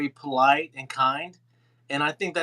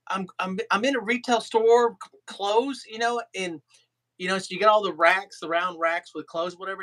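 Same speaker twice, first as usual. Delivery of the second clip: imitated Irish storyteller, slightly raised; Irish accent; 3 semitones higher than usual. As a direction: retell it in a light Irish accent. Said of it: "Ken was in his Irish accent".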